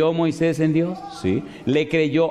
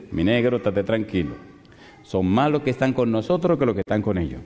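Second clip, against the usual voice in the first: lower, calm prophet soothing his servant; calm reassurance; 5 semitones lower than usual. Acted. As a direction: settle him gently, a hint of lower voice. Prophet calms frightened servant. (Eliseo tranquiliza a su siervo con calma)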